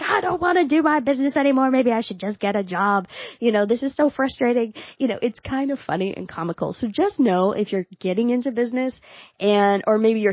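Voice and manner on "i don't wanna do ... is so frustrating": higher, put-on moaning as her own frustrated self; mock frustrated whine. Owner parodies her own backstage meltdown, higher, mock exasperated whine. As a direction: imitate a fed-up business owner ready to quit. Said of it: "Where I'm like".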